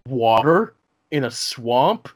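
lightly hammed TV narrator, a bit slow; a hint of a breathless mystery-show voice; mock documentary narrator. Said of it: "It's like".

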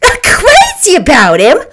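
loud, high, drawn-out disbelief; indignant incredulity, rising at the end; incredulous cry. A narrator's reading. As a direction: throw the question back, appalled. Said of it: "cried Myrtle incredulously".

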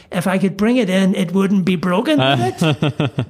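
retold exasperation at the mechanic; furious retort. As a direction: throw the question back at him, fed up. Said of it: "And I said quite furiously".

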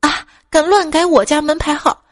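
loud, high angry ghostly shout; cold angry voice. Acted. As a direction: scold like an offended ghost. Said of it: "一个冷冰冰的声音说".

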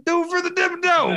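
very high cartoon tycoon cheer; mock Dimmadome cheer. Friend joining the bit, very high tycoon cheer. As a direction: squeak it out like a rally cry.

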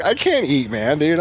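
high-pitched mock distress; retold flipping out. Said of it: "I'm flipping out".

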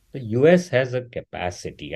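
measured and careful, word by word; slow, deliberate. Real, not acted. Speaker hedging a claim about US oversight, slow and deliberate. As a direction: say it slowly and carefully. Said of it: "and I say this slowly".

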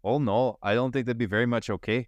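mock French accent, badly done; lightly hammed-up French accent; bad stereotypical accent. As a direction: answer in a poor put-on French accent. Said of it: "I apologize for my accent that is not very good".

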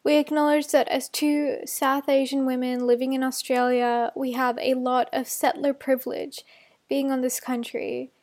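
measured formal statement; formal acknowledgement. Acted. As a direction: read it out as a solemn acknowledgement. Reads acknowledgement of country.

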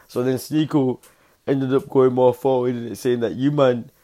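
loud, high, building excitement; worked up. Real, not acted. A vlogger getting worked up retelling the beef, loud and excited. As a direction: crank it up as the story heats.

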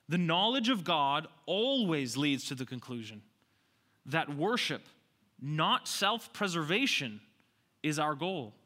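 emphatic restatement, broken into phrases; slow, deliberate repetition. Shown as a demonstration. Preacher repeating the lesson for the congregation, deliberately. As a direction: drive the key point home phrase by phrase. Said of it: "slowly and a few times".

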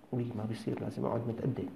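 soft self-scolding under the breath; muttered inner voice. Retold or imitated. A man scolds himself softly among pious company. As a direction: hush yourself into good manners.

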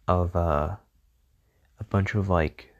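talking through a yawn; words stretched by a yawn. Real, not acted. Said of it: "sorry, I yawned".

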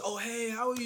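high, friendly grandmother greeting; imitated grandmotherly hello; grandmother's greeting. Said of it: "no, she goes".

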